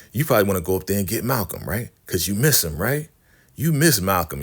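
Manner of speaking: lively mock needling, pitch jumping on the tag questions; lightly acted taunt. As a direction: tease to get into her head. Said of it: "he's really taunting Desiree".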